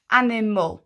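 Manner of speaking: "Animal" in three even beats; "Animal" measured, every syllable distinct. Shown as a demonstration. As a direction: clap out each syllable of "Animal". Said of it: "clap our syllables".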